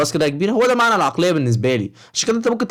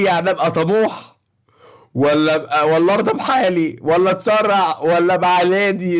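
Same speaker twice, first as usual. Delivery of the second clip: slow, dim-witted mock voice of a clueless viewer; mocking the commenter; slower than usual. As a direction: play the naive commenter, drawn out and dopey. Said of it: "عامل كده وهو بيتكلم".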